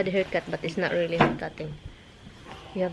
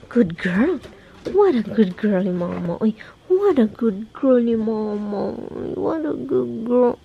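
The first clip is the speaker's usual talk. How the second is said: louder cooing praise, slowing at the end; praising the dog; 4 dB louder, slower than usual. Real, not acted. Owner praising her dog, cooing warmly. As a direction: gush over the good dog.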